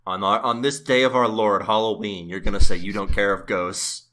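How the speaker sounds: loud, indignant scolding; mock outrage. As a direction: act shocked and loud.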